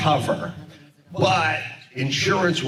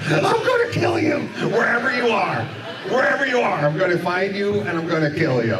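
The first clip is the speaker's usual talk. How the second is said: higher, furious yelled threat; threatening yell; 6 semitones higher, faster than usual. Retold or imitated. Angry moving guy yells at the prank caller, furious shout. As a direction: shout the death threat down the line. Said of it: "this guy just yelled".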